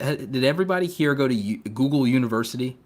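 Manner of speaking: sarcastic rhetorical question. Acted. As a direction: say it with a sarcastic edge. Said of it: "I'm being sarcastic".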